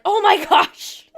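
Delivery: high, drawn-out mock complaint; mock exasperation. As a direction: stretch it out in playful dismay. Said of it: "And now I'm like".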